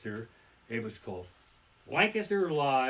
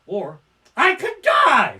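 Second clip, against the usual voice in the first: slow, loud, much higher shout of alarm; slowed-down yell of sudden panic; sudden panicked shout; 8 semitones higher, 14 dB louder, slower than usual. Retold or imitated. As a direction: blurt it out as the fear hits. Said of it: "And then I thought".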